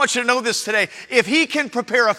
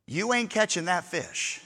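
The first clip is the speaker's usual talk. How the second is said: hushed sermon aside; 5 semitones lower, 11 dB quieter, slower than usual. Acted. Hushed preaching drop.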